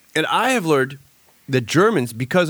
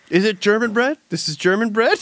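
mock amazement; 7 semitones higher than usual. Tim's mock-amazed reaction retold.

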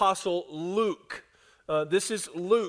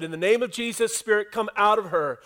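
forceful command; 3 semitones higher, 4 dB louder than usual. Acted. Paul to the spirit in the girl, forceful command. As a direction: order it out with force. Acts Paul casting out the demon.

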